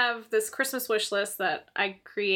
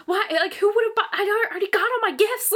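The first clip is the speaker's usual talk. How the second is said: upset; 10 semitones higher, 5 dB louder than usual. Retold or imitated. Retold confused upset.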